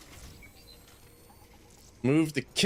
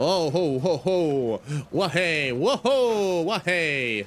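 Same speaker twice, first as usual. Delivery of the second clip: excited whooping; 3 semitones higher, much slower than usual. Real, not acted. Sliding downhill, whooping.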